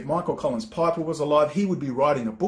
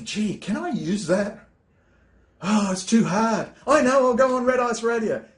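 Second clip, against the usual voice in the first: mock lazy voice; 4 semitones higher than usual. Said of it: "And you say".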